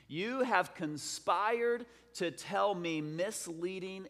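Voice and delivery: slow, emphatic declaiming of a king's decree; dramatic scripture reading. Acted. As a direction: read it out deliberately, weighting each phrase. Reads scripture aloud as the king.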